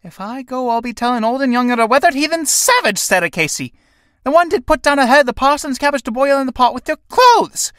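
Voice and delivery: shouted insults. Acted. Mary hurling insults, walking off.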